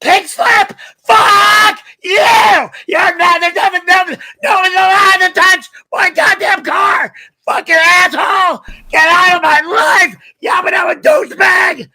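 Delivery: screaming high and loud, voice cracking with rage; furious shout. Real, not acted. Streamer furious at a donation about his car, screaming. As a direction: rage at the chat, yelling at full force.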